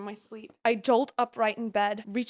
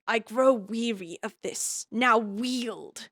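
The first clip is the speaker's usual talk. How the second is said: ordinary delivery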